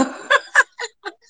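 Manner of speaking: nervous laugh. Real, not acted. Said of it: "eu tô nervosa".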